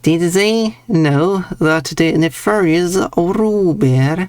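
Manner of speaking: "Ruber" said American, the T dropped; stage the line like an American who drops the T; mock American accent. Shown as a demonstration. Streamer practising an American accent on chat, dropping T's. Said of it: "because you don't pronounce the T".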